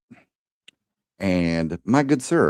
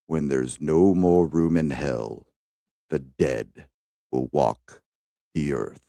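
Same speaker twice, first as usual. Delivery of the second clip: grave movie monologue; 2 semitones lower than usual. Acted. Reciting a favorite actor's famous line, grave and measured. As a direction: deliver it portentously, pausing between the final phrases. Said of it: "the gravitas in his voice".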